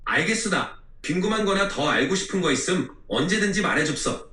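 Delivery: plain AI voice in Jeju dialect. Pretend. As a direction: answer using Jeju dialect endings. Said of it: "제주도 사투리 써주세요".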